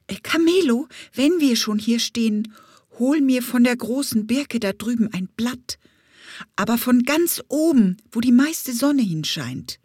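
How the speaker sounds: high bee voice giving orders; bossy bumblebee. Acted. Bumblebee ordering the parrot to fetch a birch leaf, bossy.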